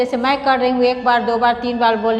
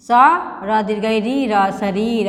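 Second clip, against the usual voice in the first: slow, syllable by syllable spelling of शरीर; teacher spelling out शरीर for the class. Shown as a demonstration. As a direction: build शरीर letter by letter, slowly. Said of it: "ऐसे करके पढ़ेंगे".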